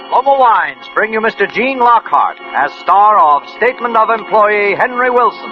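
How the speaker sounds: ordinary talk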